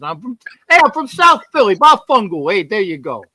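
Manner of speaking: a light, hammed-up South Philly accent, tough guy from the neighborhood. Making his pick to the host in a mock South Philly accent. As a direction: play Vinny from far South Philly with a loose South Philly accent. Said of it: "I even messed up my own accent".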